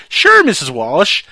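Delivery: slow hammed-up sly kid; kid quote. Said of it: "he's like".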